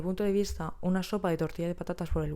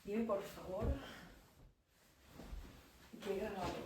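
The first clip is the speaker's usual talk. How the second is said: much softer, off-mic aside; muttering to self; 17 dB quieter than usual. Real, not acted. Muttering to self after sign-off.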